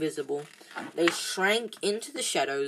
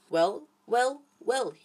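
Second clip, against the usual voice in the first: breathy menacing whisper, pitched up; 6 semitones higher, slower than usual. A narrator's reading. Filch catching the children at night, a gloating whisper. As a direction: purr it like a gloating caretaker. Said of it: "he whispered".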